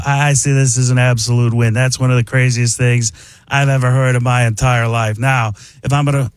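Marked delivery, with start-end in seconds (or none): 0.1-1.7 airy, aw-shucks genius; Mark Ruffalo. Shown as a demonstration. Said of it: "if you add some air and some aw shucks genius". 1.7-5.2 airy aw-shucks actor impression; Mark Ruffalo. Shown as a demonstration. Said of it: "it's Mark Ruffalo".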